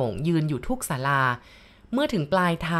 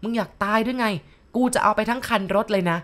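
shouting; 4 semitones higher, 3 dB louder than usual. Retold or imitated. Possessed man yelling at the bus driver, loud furious shout. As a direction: roar the threat across the bus. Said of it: "ตะโกนลั่นรถบอก".

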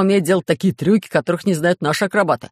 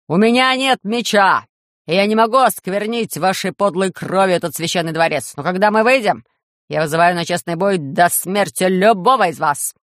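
shouting challenge. Acted. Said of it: "Он закричал".

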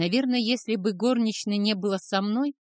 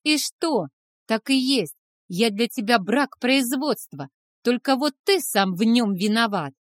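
put-on loud, higher angry teen; 4 semitones higher, 6 dB louder than usual. A narrator's reading. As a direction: shout through hurt. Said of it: "Парень злился".

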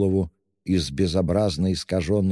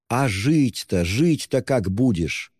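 higher, slowed, imploring cry; desperate higher exclamation; anguished exclaiming; 6 semitones higher, slower than usual. A narrator's reading. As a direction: plead with him in alarm. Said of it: "восклицала Соня".

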